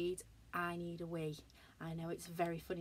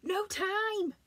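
high, loud clipped robot line; 13 semitones higher, 7 dB louder than usual. Acted. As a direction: snap it like a robot. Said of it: "said the robot".

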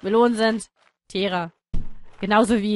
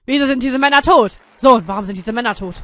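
loud wondering; 8 dB louder than usual. Acted. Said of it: "Fragte sich Dani".

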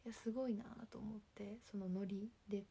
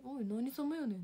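強めに突っかかる「おい、何様やねん」; 相手に食ってかかるように; むっとした返し; 3 semitones higher, 6 dB louder than usual. Retold or imitated. お前と呼ばれて怒る再現. (腹立ちを込めたツッコミ)

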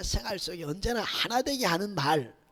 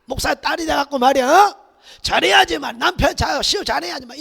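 scolding father; 3 semitones higher, 6 dB louder than usual. Retold or imitated. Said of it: "그 옛날에는".

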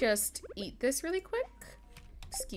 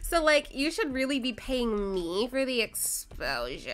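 vocal fry influencer; 3 semitones higher, 4 dB louder than usual. Acted. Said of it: "I love that you did it the same way".

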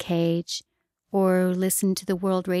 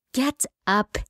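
moon's command; 6 semitones higher than usual. Acted. The moon orders the hero.

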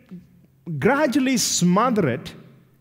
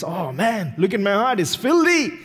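shocked discovery; 2 semitones higher than usual. Retold or imitated. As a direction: recoil at what you see. Seeing one's heart exposed.

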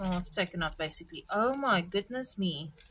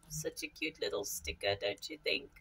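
hushed; 9 dB quieter, faster than usual. Real, not acted. Hushed aside about the sticker.

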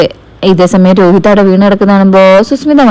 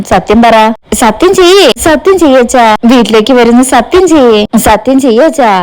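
put-on child pleading; 3 semitones higher than usual. Child begs father to promise.

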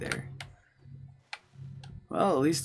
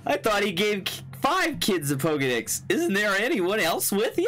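idiot voice; 5 semitones higher than usual. Acted. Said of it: "voice him like a kind of an idiot".

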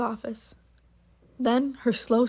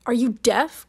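a sharp, impatient question, a touch louder; mild cry; 4 dB louder than usual. Acted. Attendant to old Phoenix, impatient, a mildly raised cry. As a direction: snap it at someone you think can't hear. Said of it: "cried the attendant".

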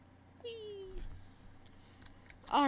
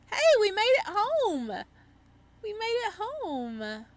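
much higher and louder, jubilant; excited cheer; 10 semitones higher, 6 dB louder than usual. Real, not acted. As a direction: shout it like you just made it home safe. Cheering arrival home in game.

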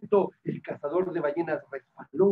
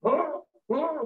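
hammed-up indignation; mock angry hunter. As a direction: play a cross hunter scolding the children. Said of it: "muy enojado, dijo".

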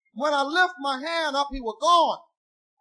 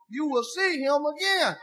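menacing threat; slower than usual. Retold or imitated. Witch threatens him over the turkey.

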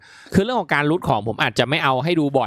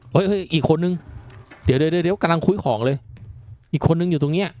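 alarmed excitement; 5 semitones higher than usual. Real, not acted. Spotting another enemy mid-fight.

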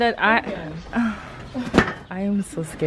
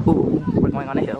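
frightened squeak; faster than usual. Real, not acted. Riding elephant uphill, frightened.

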